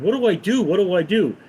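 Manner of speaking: high, frantic repeated question; guy staring at the freezer in a panic; panicked. Acted.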